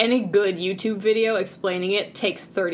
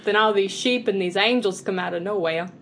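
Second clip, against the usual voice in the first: lightly put-on New York Italian; a shaky attempt at stereotypical New York Italian; New York Italian accent. Shown as a demonstration. Telling a friend of sheep and angels, New York Italian accent. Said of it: "I can't do that accent".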